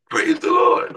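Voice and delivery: loud, high joyful shout of praise; preacher's shouted praise the Lord. Acted. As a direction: shout it to the rafters.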